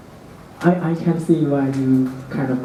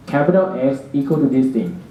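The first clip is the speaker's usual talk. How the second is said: dictating; faster than usual. Shown as a demonstration. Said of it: "type this line".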